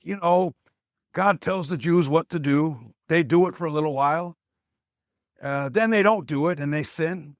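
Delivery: high, raspy Italian grandpa telling a story; Pepe's raspy Italian voice. Retold or imitated. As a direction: imitate an elderly Italian storyteller, raspy and pitched well up. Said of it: "He's got this Italian raspy voice".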